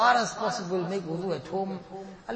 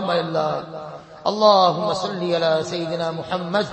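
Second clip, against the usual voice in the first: recited prayer. Acted. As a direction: settle into a devout closing recitation. Recited closing dua, partly chanted.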